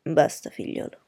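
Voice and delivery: low, fatherly and tender; affectionate. A narrator's reading. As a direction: gently stop your son with affection. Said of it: "così affettuosamente". (tono basso, paterno e affettuoso)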